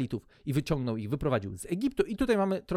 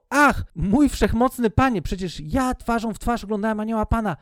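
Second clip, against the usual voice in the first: exclaimed; 5 semitones higher, 4 dB louder than usual. Acted. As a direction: cry out in awe. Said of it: "wykrzyknął".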